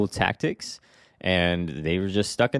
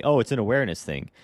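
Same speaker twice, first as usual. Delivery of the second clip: quick, breezy imitation of a dismissive agent; parroting a lame excuse, a bit fast; mock excuse; 3 semitones higher, faster than usual. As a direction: toss off the excuse lightly, mocking it. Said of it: "you're gonna tell me".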